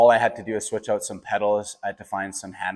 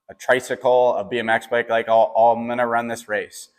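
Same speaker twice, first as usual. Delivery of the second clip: excited, stubborn vow; fired-up insistence; 2 semitones higher, 6 dB louder than usual. Retold or imitated. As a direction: push through the list with stubborn energy. Defiant retold reply to team.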